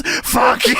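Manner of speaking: drawn-up, hammed boss's yell; Vince McMahon. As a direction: imitate an irate boss yelling. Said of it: "And Vince McMahon yells".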